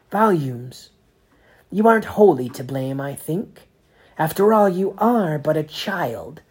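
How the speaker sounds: a lofty sneer; condescending Inquisitor. A narrator's reading. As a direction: belittle the boy from on high. Inquisitor belittles Max.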